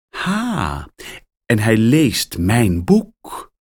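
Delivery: verrast uitroepen, langzaam. Acted. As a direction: roep het blij verrast uit. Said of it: "roept Rita uit". (schrijfster roept verrast uit over haar boek)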